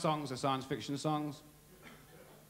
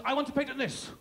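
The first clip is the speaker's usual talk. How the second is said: eager inventor; 7 semitones higher, faster than usual. Acted. Man at patent office.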